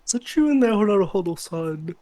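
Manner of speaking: stern investigator calling through a door; FBI investigator voice. Acted. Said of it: "Make a F B I investigator voice".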